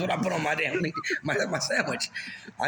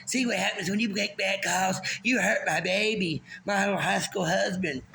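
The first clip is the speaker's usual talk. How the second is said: mock mom voice; 4 semitones higher than usual. Mocking mom on field.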